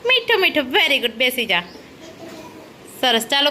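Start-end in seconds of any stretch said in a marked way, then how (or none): 0.1-0.7 lightly imitated parrot talk; a light parrot imitation; parrot call. Shown as a demonstration. Teacher showing children what a parrot says, light parrot imitation. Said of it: "કેવું બોલે".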